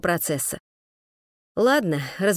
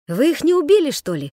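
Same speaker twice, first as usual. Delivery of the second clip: louder, higher indignant cry; outraged, demand an answer; 5 semitones higher, 5 dB louder than usual. Acted. Sashka indignantly questions the man about the thugs, indignant. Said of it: "возмутилась со всей душевностью".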